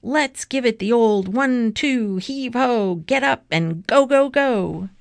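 high, driving coach's pep chant; rallying cry. A narrator's reading. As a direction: whip the team up into action. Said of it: "he cried".

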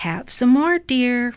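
lilting offer, rising at the end; sleep-talking wife. A narrator's reading. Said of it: "Missus Watson said in her sleep".

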